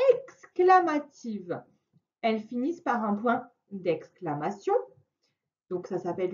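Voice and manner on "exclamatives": "exclamatives" stretched out slowly; teacher stretching "exclamatives" so it sticks; slow, drawn-out term. Shown as a demonstration. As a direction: draw out "exclamatives" for a child. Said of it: "on a les phrases".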